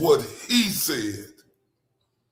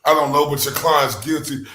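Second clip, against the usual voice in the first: mock detective; 2 semitones lower, 5 dB louder than usual. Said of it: "The fuck is he a lead investigator?".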